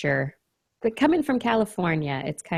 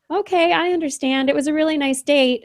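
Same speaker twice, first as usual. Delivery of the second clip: put-on accommodating boyfriend; 9 semitones higher, 5 dB louder than usual. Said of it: "the guy in the whole time is like".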